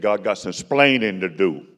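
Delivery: a hint of a Cuban accent, punching "splaining"; slow, light take on a Cuban accent; a Cuban-born bandleader. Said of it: "he spoke in that beautiful accent".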